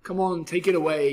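a mild storybook yell. Acted. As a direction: call it out like an eager little cat. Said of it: "yelled little cat A".

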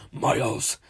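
low, imitated demonic call; horrifying voice. Boy retelling the voice he heard at mom's door, horrifying. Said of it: "like, horrifying voice ever just say".

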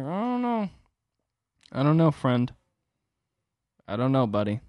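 high, loud teasing I don't know; mock Roosevelt. Roosevelt teasing Stalin, high and mocking. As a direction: shrug it off, taunting. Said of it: "And it's like".

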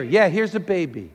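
low-key, unfazed answer; easygoing understated response; calm reply. Acted. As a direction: offer it simply after the big plea.

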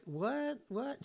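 high, baffled double take; puzzled waitress. Retold or imitated. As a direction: imitate someone tilting their head at a strange whistle. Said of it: "like when a dog hears a whistle".

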